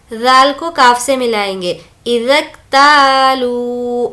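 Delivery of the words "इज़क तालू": इज़क तालू with ता and लू held long. Shown as a demonstration. Teacher stretching ता and लू so students hear the madd. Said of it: "ता को खींचेंगे ... लू को खींचेंगे".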